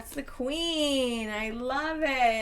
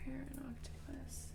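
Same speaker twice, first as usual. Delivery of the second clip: quiet whisper, much softer; 2 semitones higher, 15 dB quieter than usual. Real, not acted. Reader whispers card names while thinking, hushed whisper.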